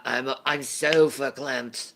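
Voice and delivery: put-on Yiddish accent; lightly performed Yiddish accent. Shown as a demonstration. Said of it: "I'll do it with a Yiddish accent".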